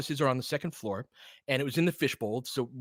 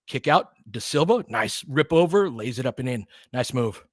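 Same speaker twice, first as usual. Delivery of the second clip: brisk live game commentary, louder on the drives; play-by-play call; 3 dB louder than usual. Acted. Streamer calling the Lakers game live for viewers, play-by-play. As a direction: call each possession as it happens.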